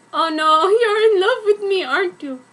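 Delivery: loud, high mock swoon; hammed-up gushing. Reader voicing a girl realising she's loved, loud mock swoon. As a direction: overact the gasp of realisation. Character line read in fanfic.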